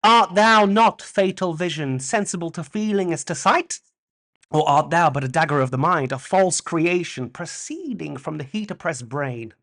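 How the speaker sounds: lightly hammed Shakespeare; theatrical recitation. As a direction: declaim it like Macbeth on stage. Quotes Macbeth dagger speech.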